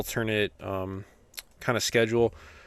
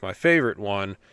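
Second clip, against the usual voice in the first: sarcastic; 3 dB louder than usual. Real, not acted. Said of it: "which I say favorite sarcastically".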